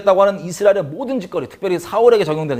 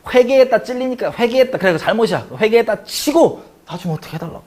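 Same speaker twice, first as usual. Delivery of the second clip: raised pitch, imitating a face-saving excuse; mock bargaining plea; 5 semitones higher than usual. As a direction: plead your way past a token repentance. Preacher voices Saul bargaining to save face.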